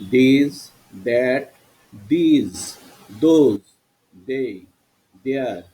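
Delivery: teacher's word-list drill; pronunciation demo. Shown as a demonstration. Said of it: "আরো কিছু pronunciation তোমাদের শোনাচ্ছি". (উচ্চারণ দেখাতে একটা একটা করে শব্দ)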